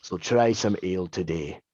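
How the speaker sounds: put-on low, old-timey radio ad read; old-time radio voice. Comedian plugging fake ale in a vintage radio ad voice. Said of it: "why are you so good at the radio voice".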